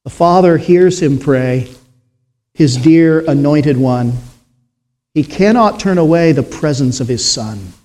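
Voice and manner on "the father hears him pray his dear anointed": hymn recitation. Acted. Preacher reciting a hymn to the congregation, solemn.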